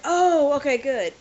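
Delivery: a sudden gush of relief; relieved. Retold or imitated. Relief after learning it's Cyrillic.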